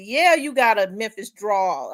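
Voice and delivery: slow, lightly mimicked Cajun guy; a hint of country Cajun, drawn out; old country Cajun. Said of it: "He sounded like an old country Cajun guy".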